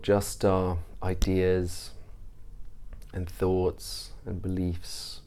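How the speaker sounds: measured meditation guide, long pauses between phrases; guided meditation. Real, not acted. Teacher leading listeners through a mindfulness practice, guided meditation. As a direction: ease listeners into stillness, unhurried and even.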